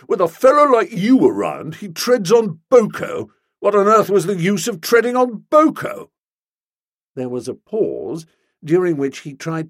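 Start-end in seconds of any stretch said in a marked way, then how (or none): 0.1-6.1 loud, higher, indignant rant; heated protest. A narrator's reading. Stilton scolding Bertie about Boko, loud and heated. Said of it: "he cried with honest heat".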